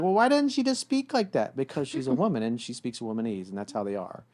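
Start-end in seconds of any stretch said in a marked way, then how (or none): 0.0-1.6 much higher, exasperated whine; mock frustrated boyfriend; baffled guy. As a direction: mimic a clueless man's complaint. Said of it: "men would be like".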